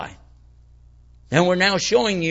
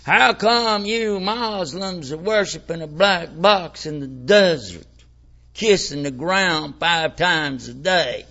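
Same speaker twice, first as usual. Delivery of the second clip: skeptical questioner; slower than usual. Retold or imitated. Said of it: "How about that one?".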